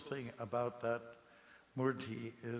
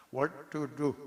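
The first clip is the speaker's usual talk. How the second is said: higher, louder mock reply; imitated stock response; 4 semitones higher, 7 dB louder than usual. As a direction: mimic the management's helpless answer, pitched up. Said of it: "that kind of response".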